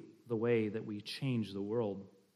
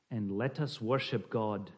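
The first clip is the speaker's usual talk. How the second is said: softer Scottish verse reading; slight Scottish accent; 4 semitones lower, 4 dB quieter than usual. Shown as a demonstration. Reading the father's call to worship, slight Scottish accent. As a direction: ease down solemnly in light Scots. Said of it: "a slight Scottish accent".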